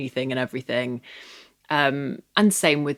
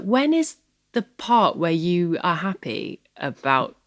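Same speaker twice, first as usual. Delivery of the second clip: higher-pitched retold challenge; retold parental plea, pitched up; imploring dad; 4 semitones higher, slower than usual. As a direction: question them pointedly, as a retold parent. Retells dad challenging her worry.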